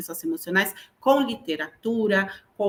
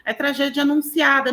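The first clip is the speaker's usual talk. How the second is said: higher, playful mock warning to pupils; lightly teasing teacher voice, pitched up; joking; 6 semitones higher than usual. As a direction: tease the class with a prophecy. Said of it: "E ainda brincava pra eles".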